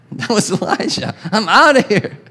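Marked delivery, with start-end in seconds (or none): 1.3-2.2 high, hammed-up panicked cries; mock panic. Elijah running from Jezebel, hammed-up high panic. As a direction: play a scared man bolting.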